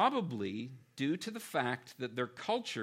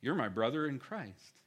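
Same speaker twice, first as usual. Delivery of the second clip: passing casual remark; 2 semitones lower, 3 dB quieter than usual. Retold or imitated. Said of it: "this passing".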